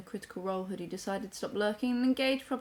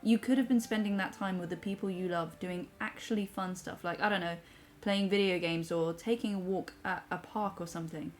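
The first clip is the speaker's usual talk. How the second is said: measured, softer read-aloud; reading a message aloud; 3 dB quieter than usual. Acted. Reads a viewer's comment aloud.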